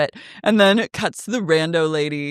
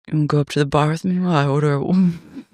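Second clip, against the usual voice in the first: fast breezy invite; 3 semitones lower, much faster than usual. Retold or imitated. Imitating Dodie flirting.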